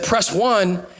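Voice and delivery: a hint of a stern robocall; slow mock robocall; automated message. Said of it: "Then it said".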